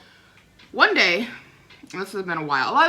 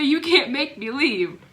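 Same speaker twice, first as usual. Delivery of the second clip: mocking grandma; 4 semitones higher, slower than usual. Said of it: "and say".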